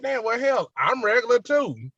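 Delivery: loud, very high mock outrage; hammed-up insistence, loud and high; indignant comeback. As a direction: protest it at the top of your pitch, amused.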